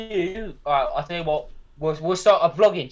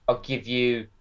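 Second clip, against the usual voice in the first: imitating her offer; 2 semitones lower, slower than usual. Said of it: "how she said it".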